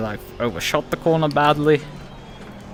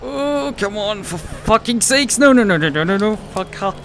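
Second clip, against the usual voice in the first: real furious yelling, high and loud; swearing tirade; 10 semitones higher, 4 dB louder than usual. Real, not acted. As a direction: explode at the other driver, screaming. Crash in race, furious outburst.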